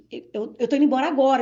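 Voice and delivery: fast, stammered start in mild panic; retold panic. Wife retelling her decision to flee the house, retold panic. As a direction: imitate blurting out that you must flee. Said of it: "Então eu entrei em pânico".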